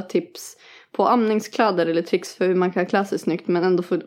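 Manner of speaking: reading aloud. Acted. Host reading a listener's question about nursing clothes, reading aloud. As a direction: read the message straight through.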